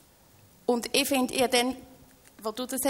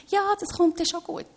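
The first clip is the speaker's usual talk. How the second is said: higher-pitched, mock easy reassurance; glib reassurance; 7 semitones higher, 3 dB louder than usual. Speaker imitating what not to tell someone struggling, glib reassurance. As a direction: brush the worry off in a lifted voice. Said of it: "Und nicht sagen".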